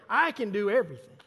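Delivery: "I" punched out loud, falling after it; stress on I. Shown as a demonstration. Preacher mimicking people who stop mid-verse, loud stress on "I". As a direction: hit "I" hard and stop at "everything". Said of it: "we stop there".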